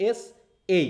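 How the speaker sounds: এসএ slowly split into "ESS" and "ay"; stress on first syllable. Shown as a demonstration. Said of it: "ওটা এস এর সাথে আলাদা".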